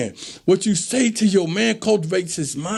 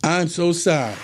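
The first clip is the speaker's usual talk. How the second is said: lower, fast, pleading sorry; woman apologizing; 6 semitones lower than usual. Retold or imitated. Girlfriend apologizing to her man after a fight, pleading. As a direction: imitate a girlfriend backing down sweetly. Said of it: "then she come back and say".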